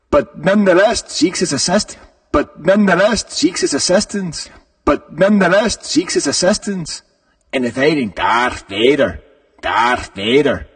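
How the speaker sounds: retry the line in a put-on Irish lilt; Irish accent. Host retrying the Lando card line in a mock Irish accent. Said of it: "Ireland, I went all over the British Isles".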